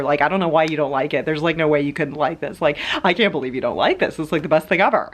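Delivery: fast, eager, pushy friend; lightly voiced gushing extrovert nagging; mock pushy extrovert. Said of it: "An extrovert will be much quicker to jump on the".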